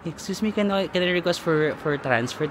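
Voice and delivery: hushed, hesitant request; mild soft-spoken request. Retold or imitated. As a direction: ask the desk quietly and politely. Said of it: "Tas sabi ko na".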